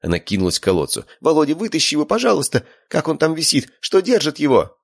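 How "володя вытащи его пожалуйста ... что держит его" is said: put-on frantic girlfriend pleading; panicked pleading. A narrator's reading. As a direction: beg him to pull her man out.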